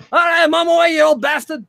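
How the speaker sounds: high, loud holler back across the bar; shouted reply. Acted. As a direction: yell back at an old pal. Dwarf answers call across bar.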